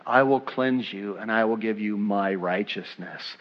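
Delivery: soft, low, gentle appeal; tender invitation. Acted. Jesus inviting sinners to bring him their sin, tender invitation. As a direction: speak softly, as Jesus calling someone back.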